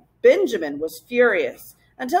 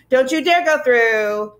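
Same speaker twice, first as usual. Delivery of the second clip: slow, louder warning; frenzied shout; 3 semitones higher, 4 dB louder, slower than usual. Acted. Gaboons shrieking at the travellers at the arch, slow and loud. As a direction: hammer each word as a threat. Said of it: "the Gaboons were in a frenzy".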